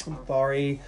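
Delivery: a light put-on accent on I'm sorry; lightly accented woman declining; unnamed accent. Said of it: "I don't know why I'm all of a sudden having that accent".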